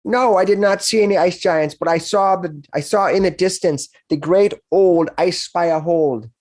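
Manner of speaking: put-on a nervous teenager admitting where he went; a young orc telling the heroes about the dragon.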